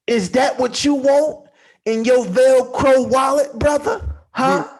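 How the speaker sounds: measured question, rising at the end; nice and slow. Shown as a demonstration. Challenging a brother in a mock sermon, nice and slow. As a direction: space out the question deliberately. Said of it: "nice and slow".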